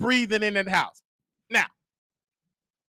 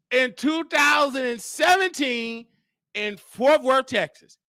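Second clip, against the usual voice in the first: slow, raised-pitch mimicry of a reveal; mock grand announcement; 4 semitones higher than usual. Returning guest reading out eviction details, mocking proclamation. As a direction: spell out each detail with mock importance.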